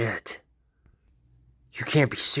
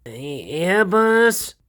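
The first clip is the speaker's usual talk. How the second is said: startled stammer; 9 semitones higher, 6 dB louder, much slower than usual. Acted. Himeno startled by her boss.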